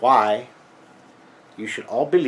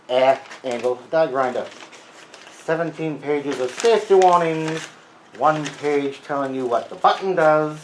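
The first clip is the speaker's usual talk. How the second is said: put-on Freudian accent. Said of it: "this crazy Freudian accent".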